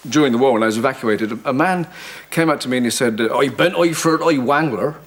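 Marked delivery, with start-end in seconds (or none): 3.4-5.0 a hint of a rustic Somerset accent; lightly voiced West Country yokel. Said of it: "when I was in Somerset".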